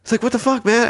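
high-pitched mock yell, little added volume; retold yelling. Homeless man confronting sandwich giver, mock yelling. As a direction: imitate an aggrieved man yelling. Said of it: "he starts yelling".

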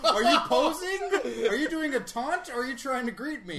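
high, loud laughing questions. Real, not acted. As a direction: ask while cracking up. Host laughing at the guest's pose.

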